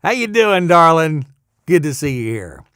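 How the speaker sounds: high start falling into smooth DJ greeting; radio DJ patter. Acted. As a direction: greet listeners in a put-on jock voice. Mimicking old radio DJ patter.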